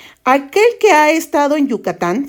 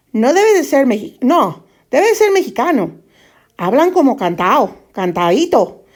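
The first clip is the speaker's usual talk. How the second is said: put-on a Mexican trying on a Castilian accent, half-successful; attempted Spain Spanish accent. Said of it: "no me sale la, el acento español".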